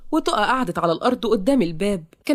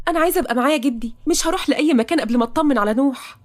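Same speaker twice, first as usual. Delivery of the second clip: higher-pitched, distressed insistence; insistent young woman; 5 semitones higher, faster than usual. Acted. Toqa refusing to leave before checking on Nouh, insistent.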